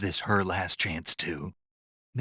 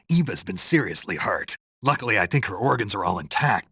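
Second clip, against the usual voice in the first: louder, pressing report of an injury; urgent report; 4 dB louder than usual. Acted. Soldier radioing the paramedic that Eva is badly hurt, urgent.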